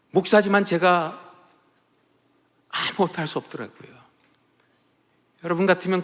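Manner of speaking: loud, high impassioned sermon; fervent preaching. Acted. Pastor pleading with the congregation, loud and fervent. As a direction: drive the point home to the congregation.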